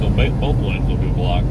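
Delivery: talking with a mouthful of food; words round a bite of food; mouth full. Real, not acted. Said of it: "I didn't mean to talk with my mouth full".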